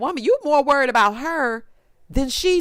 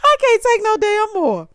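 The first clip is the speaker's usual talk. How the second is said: higher and louder, laughing through it; laughing exasperation; 11 semitones higher, 5 dB louder than usual. Real, not acted. Host fed up with the hairstyle, laughing exasperation. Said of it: "I cannot take no more".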